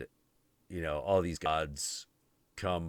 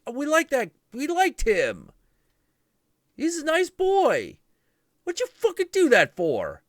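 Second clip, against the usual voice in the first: whiny outraged gods; 10 dB louder than usual. Retold or imitated. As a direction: wail the complaint. Gods upset.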